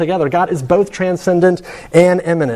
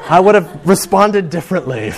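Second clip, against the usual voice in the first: much higher, laughing through the words; mock regret, giggling at missed chance; 6 semitones higher than usual. Friend's friend realizing she turned down Matthew Fox, laughing. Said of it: "she's like".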